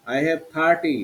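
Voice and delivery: "thirty" starting with aspirated t; teacher's demo, "thirty" with a থ sound. Shown as a demonstration. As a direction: model "thirty" with a clear থ. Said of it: "থ".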